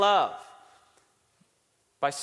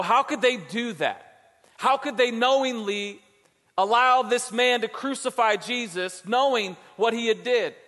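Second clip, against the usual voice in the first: indignant; 4 semitones higher than usual. Retold or imitated. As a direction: plead against the crowd's injustice. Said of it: "I kinda get angry".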